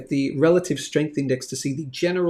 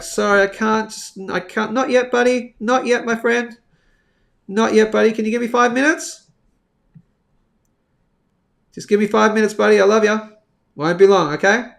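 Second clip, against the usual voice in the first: higher, sing-song coaxing to a little one; coaxing buddy; 4 semitones higher, 4 dB louder than usual. Real, not acted. Streamer hushing a small visitor off-mic, higher coaxing tone. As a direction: gently put him off for five minutes.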